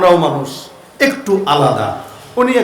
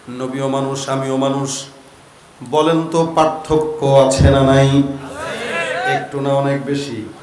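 soft, low, level question to the crowd; low sermon intoning; 6 semitones lower, 4 dB quieter than usual. Acted. Preacher asks congregation about the difference, low intoning. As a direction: draw the answer out quietly.

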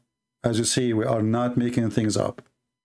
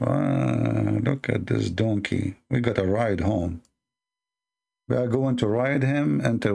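lower, scheming inner voice; imagined sly imam; 3 semitones lower than usual. Retold or imitated. A hint of the imam's imagined scheming thoughts, lower voice. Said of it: "Yasser Qadhi is saying to himself".

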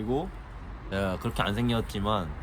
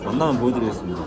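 chewing while talking; faster than usual. Real, not acted. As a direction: mouth full of food. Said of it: "먹으면서 얘기해서 죄송합니다".

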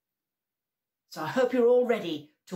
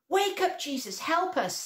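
high-pitched plea for help; mild storyteller's call, falling away; 9 semitones higher than usual. A narrator's reading. Friends needing help in the storm, calling out. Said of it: "they called out to Jesus".

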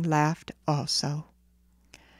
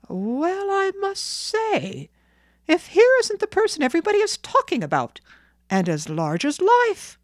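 high-pitched astonished townsman; amazed; 11 semitones higher, 3 dB louder than usual. Acted. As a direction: marvel in a raised pitch at who has turned up. Operator amazed to see the boy.

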